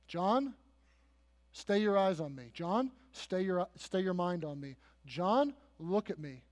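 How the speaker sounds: tender acted appeal with long pauses; gentle reassurance. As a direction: calmly draw a troubled friend's attention back. Christ calming troubled John, acted.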